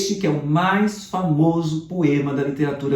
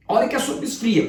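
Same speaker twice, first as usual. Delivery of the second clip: a hint of a nagging mum, higher; mother's warning; 7 semitones higher than usual. Teacher imitating a mum scolding over cold soup, light and higher. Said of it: "coisa de mãe".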